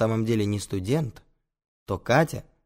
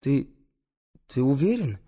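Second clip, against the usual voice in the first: higher, faltering question; nervous stammered query; trembling voice; 5 semitones higher than usual. Acted. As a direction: ask it haltingly, afraid of the answer. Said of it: "дрожащим голосом спрашивает Антон".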